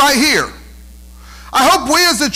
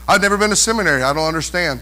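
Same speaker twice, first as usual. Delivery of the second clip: lower, lightly acted objector; objecting church member; 8 semitones lower, 3 dB quieter, faster than usual. Preacher voicing a reluctant listener, mock helplessness. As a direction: put on a mild, low-voiced protest.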